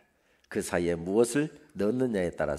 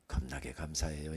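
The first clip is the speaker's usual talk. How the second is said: soft, lower Jeolla dialect thanks; 5 semitones lower, 5 dB quieter than usual. Shown as a demonstration. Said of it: "전라도 출신들은 전라도 말로 하시고".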